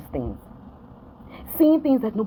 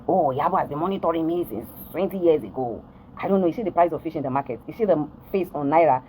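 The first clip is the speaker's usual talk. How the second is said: mocking her claims; 3 semitones lower than usual. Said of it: "all these things in her head".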